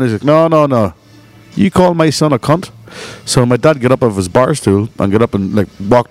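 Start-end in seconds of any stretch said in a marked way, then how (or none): 0.2-2.7 higher-pitched, affronted challenge; imitated angry dad. Offended dad confronting his friend, higher-pitched angry challenge. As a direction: act a father squaring up, pitched up.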